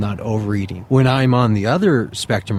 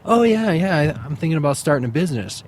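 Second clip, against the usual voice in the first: breezy talker; 5 semitones higher, faster than usual. Retold or imitated. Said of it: "people going".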